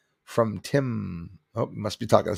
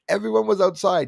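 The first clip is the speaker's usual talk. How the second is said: laughing; 8 semitones higher, 4 dB louder than usual. Real, not acted.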